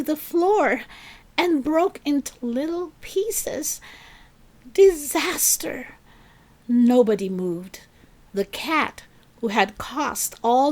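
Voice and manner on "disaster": dramatic pause word. A narrator's reading. Dramatic one-word narration.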